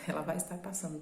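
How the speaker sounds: a light mock call-center operator read; playful hint of a phone-sales pitch; telemarketing voice. Shown as a demonstration. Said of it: "bem cara de telemarketing".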